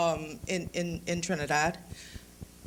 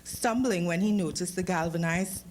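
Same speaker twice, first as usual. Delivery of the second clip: steady, unhurried reading-aloud voice; story narration; 2 semitones lower than usual. A narrator's reading. Author reading his story to the audience, calm narration.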